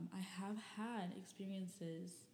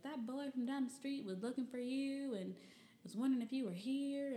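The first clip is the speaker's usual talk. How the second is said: granny voice; 6 semitones higher, 5 dB louder than usual. Retold or imitated. Granny relays the message.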